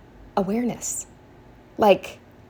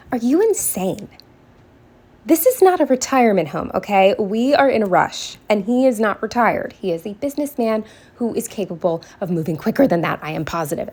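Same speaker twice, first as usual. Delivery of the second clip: exasperated rant; 2 semitones higher than usual. Real, not acted. Ranting about slow customer.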